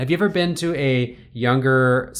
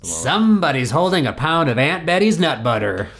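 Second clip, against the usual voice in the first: booming stadium announcer impression; sports announcer voice; 3 semitones higher than usual. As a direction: call it like a PA announcer. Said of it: "And he says".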